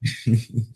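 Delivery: playful villain chuckle; sinister laugh. Acted. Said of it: "It's my sinister laugh".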